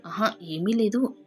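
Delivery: faltering. Retold or imitated. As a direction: fumble for words like he's been caught out. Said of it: "తడబడుతూ". (తడబడుతూ, నెమ్మదిగా మొదలుపెట్టి)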